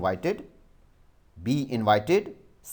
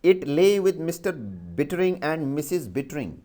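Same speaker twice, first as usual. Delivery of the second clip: dictation read; 4 semitones higher than usual. Shown as a demonstration. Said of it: "I repeat the sentence".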